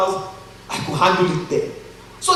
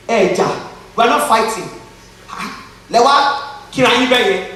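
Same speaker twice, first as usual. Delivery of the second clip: loud, higher-pitched mock mother's rebuke; imitated scolding mother; 4 semitones higher, 5 dB louder than usual. Mother confronting her two sons over fighting, imitated scolding. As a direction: act out mum challenging her boys, loudly.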